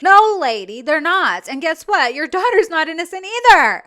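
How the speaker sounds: loud, emphatic rebuke; exasperated scolding. Real, not acted. Host correcting a deluded mom, loud exasperated scolding. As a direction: raise your voice to set her straight.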